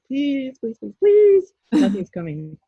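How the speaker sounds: high, loud, frantic pleading please please please; desperate begging. Retold or imitated. To her guides in meditation, nothing comes: frantic begging. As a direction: beg like your last hope is slipping away. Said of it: "I'm just begging".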